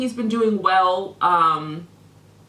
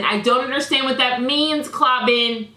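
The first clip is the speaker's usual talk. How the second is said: repeats it higher and louder, pressing harder; more heated; 3 semitones higher, 3 dB louder than usual. Real, not acted. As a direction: hit "means" with rising exasperation. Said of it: "as I'm getting heated".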